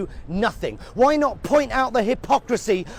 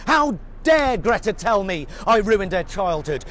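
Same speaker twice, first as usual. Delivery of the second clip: mock angry shout. Mocking an angry denier.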